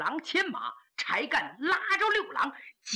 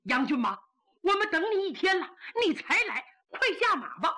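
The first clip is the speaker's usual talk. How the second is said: shouting; 6 semitones higher, faster than usual. Acted. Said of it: "高喊".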